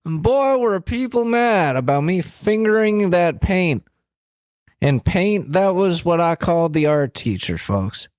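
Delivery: rambling, folksy elder statesman impression; Joe Biden. Joe Biden bragging about preschool finger painting, rambling impression. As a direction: swoop through a stumbling politician's anecdote. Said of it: "Kelsey, it's Joe Biden".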